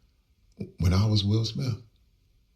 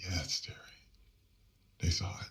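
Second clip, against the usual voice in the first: hushed retold reply; 2 semitones higher, faster than usual. Retells aunt confirming the bad news.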